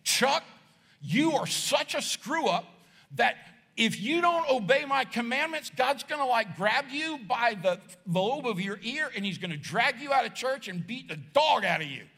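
mock the harsh voice of guilt; lightly voiced stern preacher scolding a kid; condemning preacher. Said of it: "I heard them saying".

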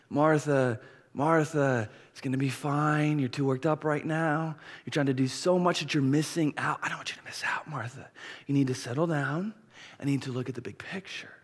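gentle reassurance, softening towards the end; arm-around-the-shoulder comfort. Acted. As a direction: console a worked-up friend kindly. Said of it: "more of an arm around the shoulder".

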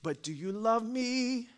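soft and slow, searching; tender plea. Acted. God speaking to the congregation, soft and slow. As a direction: ask gently, letting it land.

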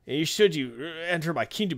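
acted grunt of effort mid-sentence. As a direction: imitate straining to lift something while talking. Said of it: "He, like, grunts".

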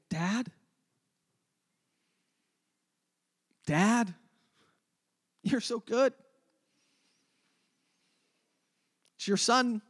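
tender prayer. Retold or imitated. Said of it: "I've learned to pray ... by saying".

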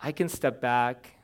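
soft, hushed prayer to the Lord; humble murmured prayer; quiet prayer. Retold or imitated. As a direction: pray it softly, stepping back from the chaos. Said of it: "some of it's just saying".

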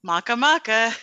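"Maca maca" as mah-kuh, like a comic catchphrase; mimicked Kiwi mocha. Teasing a co-host's accent, "Maca maca" as mah-kuh. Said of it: "It's like Fuzzy Bear".

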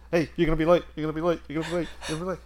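a hint of a little cartoon dog nagging; pestering cartoon-dog type. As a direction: lightly imitate a yappy, pestering kid. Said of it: "picture of that little dog in the cartoons".

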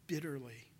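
breathed out in a whisper; whispered bitterly. A narrator's reading. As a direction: let the word fall to a whisper. Narrating Peter weeping bitterly.

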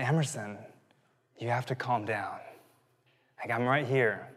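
soft, low reassurance, retold; calming father. Father retelling how he talked to his drowning daughter, softly calming. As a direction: talk a panicking child down quietly.

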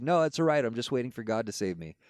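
high, breezy refusal; lightly voiced stubborn believer; stubborn man on roof. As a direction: brush off the help cheerfully.

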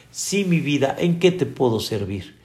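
a patient sage soothing a pest; gentle patience. Retold or imitated. Hillel answering the provoker, softly patient. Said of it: "con una finura, con una paciencia".

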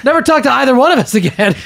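high-pitched mock indignation; retold mad classmate. Girl in art history cuts off both friends, mock angry. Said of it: "She got really mad".

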